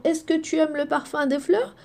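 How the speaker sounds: rising question to the class; asking the question. Shown as a demonstration. Teacher asking pupils a question, rising. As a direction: ask it like a curious friend. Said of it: "Si je te pose la question".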